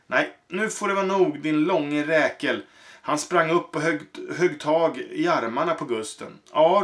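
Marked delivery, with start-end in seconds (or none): 0.1-2.6 angry smith. Acted. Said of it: "ropade smeden". 6.5-6.8 angry shout. Acted. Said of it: "ropade smeden".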